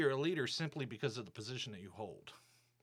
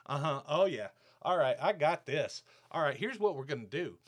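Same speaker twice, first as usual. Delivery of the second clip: louder, smug mock boss voice; condescending boss; 2 semitones higher, 5 dB louder than usual. Imitating the boss threatening a talk, loud smug mock. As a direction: ham up the boss taking charge. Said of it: "This is exactly how he responded".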